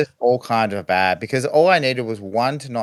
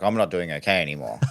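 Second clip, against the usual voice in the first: quicker, lower and softer; deflated; 4 semitones lower, 5 dB quieter, faster than usual. Retold or imitated. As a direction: let the confidence drain away. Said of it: "I'm like".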